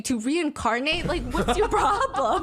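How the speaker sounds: mock-outraged commenter, half laughing; exasperated rant. Commenters fed up with Zizi interrupting, exasperated.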